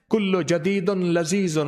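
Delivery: slow motto. Shown as a demonstration. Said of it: "motto slow".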